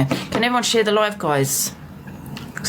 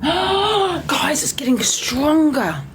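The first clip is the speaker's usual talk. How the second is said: breathy whisper to viewers; hushed awe at the snow; excited whisper; 8 semitones higher, much slower than usual. Real, not acted. Whispering to viewers about the snow, hushed awe.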